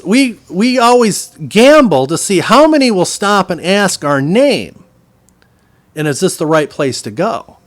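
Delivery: high, loud, animated butcher; acted gleeful explaining. Butcher reveals the family gamble, loud and animated. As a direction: imitate the butcher letting you in on the bet.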